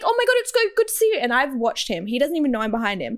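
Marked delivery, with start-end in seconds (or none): 0.0-1.2 very high gushing girl imitation; mocking overfriendly girl voice; mock fangirl. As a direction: squeal a fake-sweet hello, way up high. Mimicking girls greeting her boyfriend.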